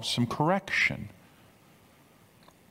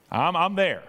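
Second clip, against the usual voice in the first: raised, insistent pitch; emphatic; 6 semitones higher, 3 dB louder than usual. Acted. Preacher as Jesus insisting He is there, emphatic. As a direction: insist on being present, pitched up. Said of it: "the language is very emphatic".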